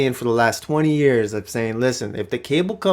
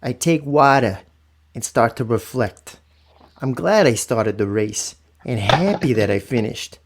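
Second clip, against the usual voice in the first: slow, solemn poem reading; slower than usual. Shown as a demonstration. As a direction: read it slow and heartfelt, like a poem. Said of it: "I'm gonna read it just like my grandfather would probably wanna read it".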